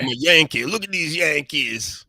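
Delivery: exaggerated Southern accent. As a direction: stretch it into a Texan twang. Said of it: "I don't like Southern talk".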